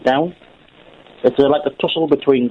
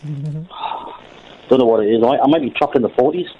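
recording booth disc; slower than usual. Real, not acted. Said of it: "You sound like an old record".

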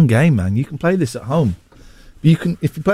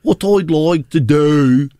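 bad Brummie accent; slower than usual.

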